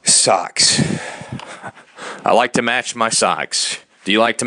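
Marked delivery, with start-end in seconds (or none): 0.0-0.8 whispered. Real, not acted. Whispered aside.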